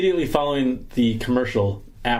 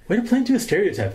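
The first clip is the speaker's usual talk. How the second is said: retold reproach; 9 semitones higher, faster than usual. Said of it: "I'm like".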